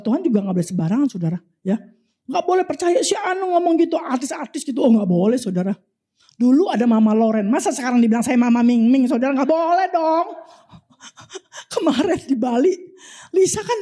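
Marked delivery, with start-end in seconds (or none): none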